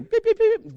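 high-pitched electronic beeping imitation; communicator beep. Preacher reminding Trekkies of the communicator, high imitated beeps.

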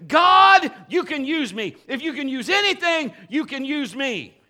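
rousing call to the congregation; full-force preaching. Real, not acted. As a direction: preach it loud, building to a cry.

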